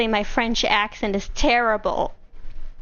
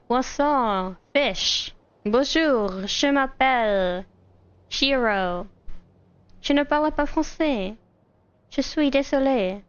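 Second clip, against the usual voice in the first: fake French accent; 2 semitones higher, slower than usual. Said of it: "I can fake the accent".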